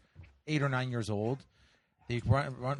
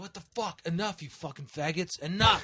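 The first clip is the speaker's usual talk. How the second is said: retold angry yell; 4 semitones higher than usual. Yelling at kids to stop.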